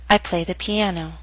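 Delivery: "I play the piano." falling at the end; falling intonation. Shown as a demonstration. Teacher models an answer, falling intonation. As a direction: let the pitch drop on "piano". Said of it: "Both will be read with falling intonation".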